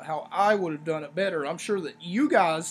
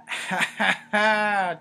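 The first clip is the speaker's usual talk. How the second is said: mock cackle, last ha louder; Seth Rollins; 4 dB louder, much slower than usual. Reviewer imitating the wrestler's post-match interview, mock cackle. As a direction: fake an unworried cackle.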